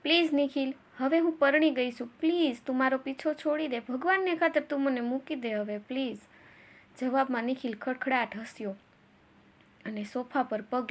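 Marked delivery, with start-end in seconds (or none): 0.0-6.2 understated tearful begging; tearful plea. Acted. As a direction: beg with a hint of tears. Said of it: "એ રડતા રડતા બોલી".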